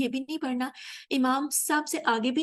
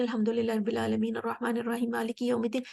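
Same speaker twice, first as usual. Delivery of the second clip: rushed recitation. Shown as a demonstration. Teacher showing students the wrong, hurried way. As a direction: gabble it all in one quick breath. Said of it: "ایسے نہیں".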